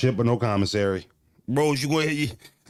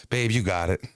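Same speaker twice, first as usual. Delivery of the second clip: lower, soothing and sugary; sweet wife; 5 semitones lower than usual. Retold or imitated. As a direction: say it like honey. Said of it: "That's what she meant".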